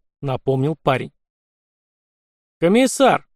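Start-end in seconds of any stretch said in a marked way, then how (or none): 2.6-3.3 loud high call across the road; sharp loud call for attention. Acted. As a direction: hail the commissar from horseback. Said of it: "окликнул".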